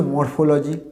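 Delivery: মরফোলজি with a sounded r and "lo-ji" ending; wrong pronunciation. Shown as a demonstration. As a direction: say মরফোলজি as "mor-fo-lo-ji". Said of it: "না, এটা ভুল।".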